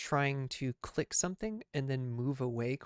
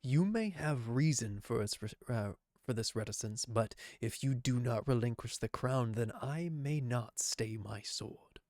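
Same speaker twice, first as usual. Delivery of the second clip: gravelly voice; 3 semitones lower, slower than usual. Acted. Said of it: "I can't do that gravelly voice".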